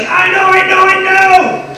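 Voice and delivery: put-on a girl bursting to answer first; eager child. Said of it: "and she's like".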